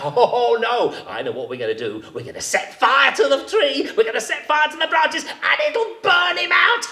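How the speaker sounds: high, chuckling scheming jackal; gleeful jackal. A narrator's reading. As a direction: laugh as you plot it.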